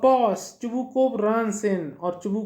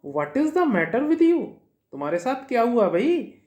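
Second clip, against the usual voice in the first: exasperated father; 3 semitones higher than usual. Acted. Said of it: "चुबुकोव बोलता है".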